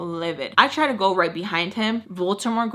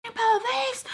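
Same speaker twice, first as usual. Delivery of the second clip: much higher mock-angry question; mad question. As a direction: demand it sharply. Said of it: "Like, mad".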